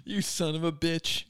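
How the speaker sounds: loud, slow hammed-up outrage; mock outrage. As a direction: act wounded and furious.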